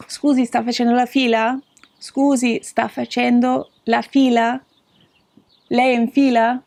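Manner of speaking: Scusi, sta facendo la fila said clearly, rising on fila; polite Italian question. Shown as a demonstration. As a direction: ask a stranger politely in careful Italian. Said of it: "you could say".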